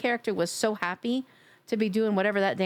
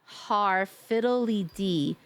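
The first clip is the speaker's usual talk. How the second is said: slow sing-song pirate voice; much slower than usual. Acted. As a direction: ham up a jolly pirate chant. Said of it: "your pirate voice is a ten out of ten".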